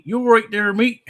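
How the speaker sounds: bright shouted agreement; high loud retort. Pretend. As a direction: fire it back up high and loud. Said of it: "you are really slow and thick accent".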